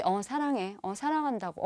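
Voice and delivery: perfunctory, half-hearted love declaration; absent-minded brush-off; soulless. Acted. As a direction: say it with no feeling at all. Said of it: "정말 영혼 없이".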